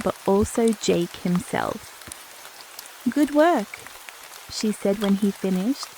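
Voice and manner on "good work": higher-pitched, sincere praise; lifted voice, honestly impressed; genuine approval. A narrator's reading. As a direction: approve like a senior doctor who means it. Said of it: "genuine approval in her voice".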